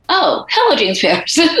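high sarcastic greeting from the angry coach; mock sarcastic coach. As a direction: greet him with fake sweetness. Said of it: "he goes".

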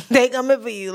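chuckling while saying it; laughing. Real, not acted. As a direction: say it through a laugh. Joking about the government.

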